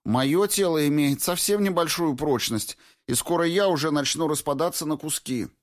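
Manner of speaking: high-pitched voice of a worn-out woman; pleading complaint. A narrator's reading. Weary Alyona pleads with the marching squad, high and plaintive. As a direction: protest pitifully, pitched well up. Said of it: "взмолилась Алёна Амельская".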